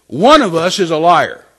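loud, slow, stern pronouncement; displeased voice. Retold or imitated. The Lord to the doubting driver, displeased. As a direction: imitate the Lord's booming rebuke. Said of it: "in a voice that wasn't very happy".

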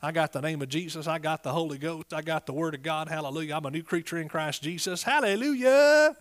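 ordinary delivery

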